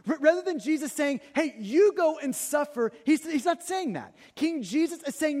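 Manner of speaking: impassioned preaching. Real, not acted. Preacher proclaiming a self-sacrificing king to the congregation, impassioned. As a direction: drive each contrast home with punched pronouns.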